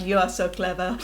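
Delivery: put-on lightly slurred, drunk and fond; a hint of tipsy praise. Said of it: "in a really drunk voice".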